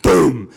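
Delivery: low, drawn-out boom; sudden heavy door-slam sound; imitated door bang. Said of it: "all of a sudden we hear".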